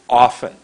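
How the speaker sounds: "Often" with a loud, long first vowel; a strong, drawn-out "Often"; lengthened vowel. Shown as a demonstration. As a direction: lean hard on the "O" of "Often". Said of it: "I go like this".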